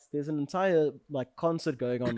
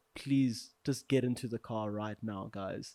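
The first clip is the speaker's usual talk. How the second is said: put-on sorrowful pleading tone, low and soft; 4 semitones lower, 5 dB quieter than usual. Retelling what their Uber driver said to the group, imitating a sad voice. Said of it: "like sadness in his voice".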